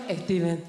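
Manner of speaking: put-on Esteban in mum's accent, eh-steh-BAN; mock mum answering Esteban; mum's Spanish Esteban. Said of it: "What's his name, Mum?".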